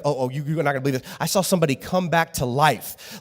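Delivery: excited retelling. Pretend.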